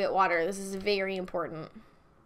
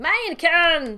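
German-style Minecon; 7 semitones higher, 8 dB louder, slower than usual. Shown as a demonstration. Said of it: "That's German".

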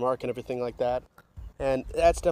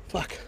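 breathless sighing curse; 7 dB quieter than usual. Real, not acted. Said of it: "I'm out of breath, sorry".

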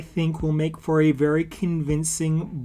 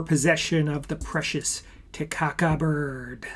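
ends in a whisper; nature documentary. Pretend. Toy models shown in "natural habitat.

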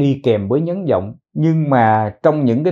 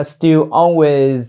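slow demo; slower than usual. Shown as a demonstration. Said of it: "thêm chữ things vào trước chữ off".

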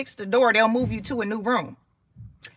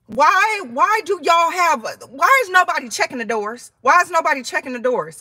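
frustrated complaint; 4 semitones higher, 3 dB louder than usual. Retold or imitated. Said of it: "And I was like".

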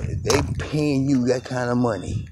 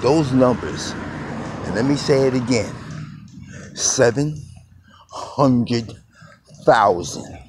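voice going up; 3 semitones higher than usual. Real, not acted. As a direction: push the number out in disbelief. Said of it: "You can see my voice is going up".

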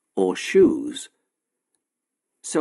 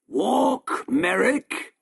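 sharp, raised angry order; angry command; 11 semitones higher, much slower than usual. A narrator's reading. Shopkeeper orders Merrick to walk, angrily. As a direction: bark the name like a cruel master. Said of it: "said the shopkeeper angrily".

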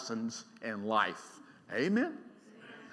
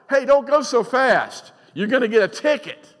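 parent's warning; 9 semitones higher, 8 dB louder than usual. Acted. Parent warning a speeding teen.

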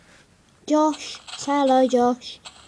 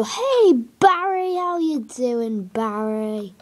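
cheery greeting; slower than usual. Retold or imitated. Greeting Barry the pet on the farm, cheery. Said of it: "Like I did, in another episode".

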